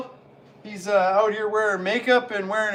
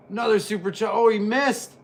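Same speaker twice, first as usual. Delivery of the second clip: louder rising ringside call; excited call; 4 semitones higher, 5 dB louder than usual. Acted. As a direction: build the call as it lands. Calls repeated move louder.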